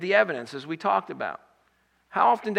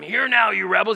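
a louder rebuke, rising at the end; retold yell; 2 semitones higher, 5 dB louder than usual. Preacher repeating Moses yelling at the rebels, a mock yell. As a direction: yell it at the grumbling crowd again. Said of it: "he just yells at them".

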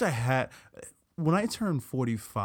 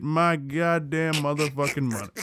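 emphatic, lightly voiced older man; powerful older Black man; 2 semitones higher than usual. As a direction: punch every curse like an older Black man. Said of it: "You sound just like him".

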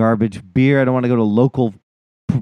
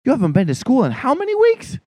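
high, exasperated Boston parent, hammed up; Boston accent sliding into New York; bad Boston accent; 12 semitones higher than usual. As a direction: scold in a badly faked Boston accent. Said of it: "I can't do a fucking Boston accent".

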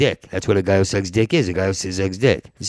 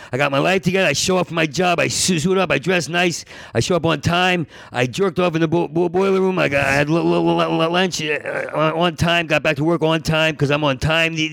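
high-pitched, stuttering mock testimony; retold loud testimony; 4 semitones higher than usual. A guy sharing at an AA meeting, mock loud. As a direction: imitate a loud, insistent meeting share. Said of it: "They were loud".

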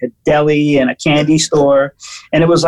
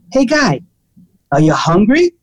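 aggressive waiter; 4 semitones higher than usual. Retold or imitated. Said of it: "he looks at me and goes".

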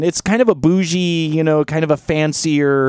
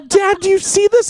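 hushed alarm to her dad at the table; shocked whisper-shout. Retold or imitated. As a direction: pitch it up in disbelief. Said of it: "and I'm all".

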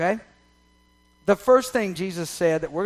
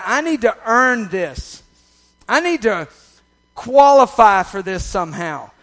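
mock inner accuser; 7 dB louder than usual.

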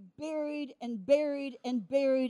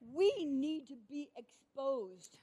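hushed solemn appeal; 9 dB quieter than usual. Real, not acted. Preacher drops voice for solemn appeal.

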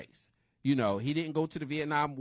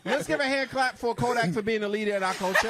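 sarcastic; 5 semitones higher, 4 dB louder than usual. Real, not acted. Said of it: "you make it sound terrible".

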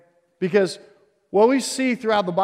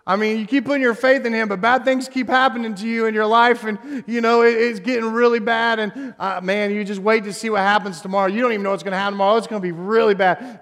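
a hint of a taunting devil, pushed a little louder; mock Satan yelling; 3 semitones higher, 4 dB louder than usual. Preacher voicing Satan screaming lies at the anxious, mild mock yell. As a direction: taunt them like Satan shouting from afar. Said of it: "he yells at us, he screams to us".

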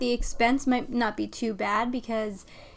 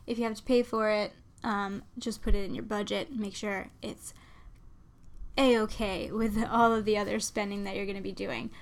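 stuffy nose from a cold; talking through a blocked nose; nasally voice. Real, not acted. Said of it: "my weird nasally voice".

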